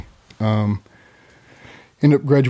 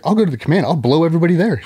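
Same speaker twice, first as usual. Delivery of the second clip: mock riled-up wife; 6 semitones higher, faster than usual. Wife's escalating threat.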